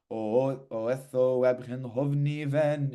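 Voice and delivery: quick o then ven held; rushed o, held ven. Shown as a demonstration. Teacher showing students to rush the o and hold ven. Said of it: "you're gonna rush the o".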